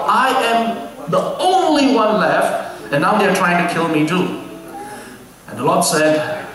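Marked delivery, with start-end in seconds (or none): 0.1-4.4 slow, high, drawn-out lament; mournful prophet, slowed right down; lamenting Elijah. Acted. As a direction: stretch out the prophet's despair. Reading Elijah's lament aloud.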